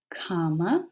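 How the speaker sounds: whispered label. Shown as a demonstration. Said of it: "I've just whispered pause".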